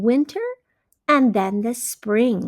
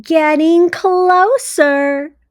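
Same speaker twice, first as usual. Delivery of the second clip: 1 hopeful Pete; 6 semitones higher, 8 dB louder, slower than usual. Acted. Pete's line in story.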